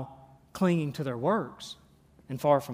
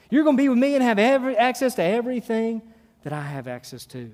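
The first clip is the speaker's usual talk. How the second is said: excited promise; 3 semitones higher, 4 dB louder than usual. Acted. Jesus promising paradise.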